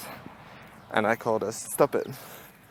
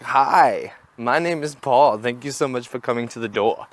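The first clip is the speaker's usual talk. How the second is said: overeager salesman greeting; 3 semitones higher, 6 dB louder than usual. Retold or imitated. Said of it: "he'd be like".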